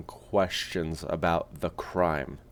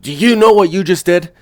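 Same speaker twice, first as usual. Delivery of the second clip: stern cop dad; 7 semitones higher, 9 dB louder than usual. Acted. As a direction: scold like everyone's dad. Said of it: "cop version of me was just everyone's dad".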